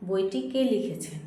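measured pace for pupils writing it down; slow dictation. Shown as a demonstration. Teacher dictates a question to young pupils, slowly. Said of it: "আস্তে আস্তে বলছি যাতে তোমাদের সুবিধা হয়".

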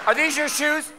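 high-pitched catty diva; drag-queen cat. Acted. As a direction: question it like a camp cat. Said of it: "are cats drag queens?".

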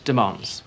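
demands said with no R sound, a flat southern vowel; demands without R. Shown as a demonstration. Prisoner corrects the officer's demands, no R. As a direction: say demands dropping the R cleanly. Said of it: "with no R's".

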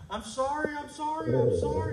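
high, loud, frantic pleading; imitated crying apology. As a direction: act out a wailing wife apologizing over and over. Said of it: "screaming, crying".

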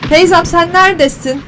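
a high call across the water. Real, not acted. Gamer calling the old woman from a distance, high call. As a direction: call her from far off.

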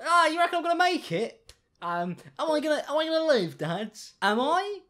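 high, pleading sick-boy voice, hammed-up; mock crying son. Mocking the TikTok son asking dad, high hammed-up plea. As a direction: play the dying son, whimpering to dad. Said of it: "you, you were crying".

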